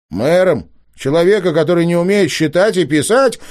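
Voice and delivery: выше и громче, с возмущением; выпалить, не сдержавшись; возмущённый выкрик. A narrator's reading. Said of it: "выкрикнул Елисей, не сдержавшись". (Елисей возмущённо кричит на старичка)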